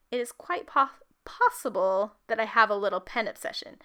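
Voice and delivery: "possible" inflected differently to stand out; stress on POSSIBLE. Shown as a demonstration. Crafter showing how she emphasizes a word, stress on "possible". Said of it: "my voice would inflect differently when I say the word possible".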